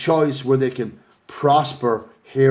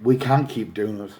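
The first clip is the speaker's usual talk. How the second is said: choked up, a little softer; getting upset; 3 semitones lower, 3 dB quieter than usual. Real, not acted. Campaigner pleading with viewers, choked up and quiet. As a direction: voice catching, holding back tears. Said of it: "I'm getting upset".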